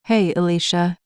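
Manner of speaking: a touch of gentle soothing. Acted. Firefighter calming a toddler behind a door, mildly soothing. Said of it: "Jeff said in a soothing voice".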